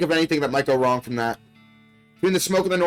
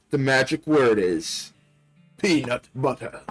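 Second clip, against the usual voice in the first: creepy doll; slower than usual. Acted. Doll reveals magic word.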